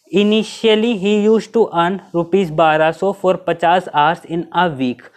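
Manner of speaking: reads the question out word by word, very slow; slow dictation read. Shown as a demonstration. Teacher reading the exam question to the class, slow dictation pace. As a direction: spell out the problem slowly for students to copy.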